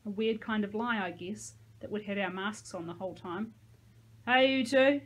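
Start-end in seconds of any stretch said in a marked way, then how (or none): 4.3-5.0 loud, higher slurred greeting. A narrator's reading. High Jake greets the returning pair, slurring. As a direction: call it out like a man who's high. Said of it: "Jake slurred".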